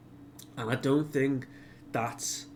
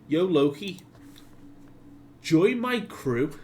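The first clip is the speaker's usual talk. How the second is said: louder, higher, punchy invitation; bold call-out; 5 semitones higher, 5 dB louder, slower than usual. Retold or imitated. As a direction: call it out high, stretching the last words. Luffy's bold invitation to Loki.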